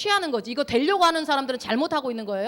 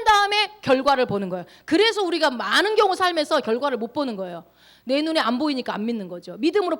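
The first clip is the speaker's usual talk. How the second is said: loud, raised preaching voice; full-force preaching; 5 semitones higher, 6 dB louder than usual. Real, not acted. Preacher retelling the trumpet and falling wall, full-force preaching. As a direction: drive each phrase home to the congregation.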